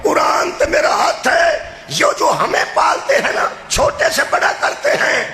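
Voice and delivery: thundering sermon climax; preaching at full force. Real, not acted. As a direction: hammer each point home to the crowd.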